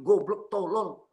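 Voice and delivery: slow, mildly acted insult; makian. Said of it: "saya maki". (makian tiruan yang ditekan pelan-pelan)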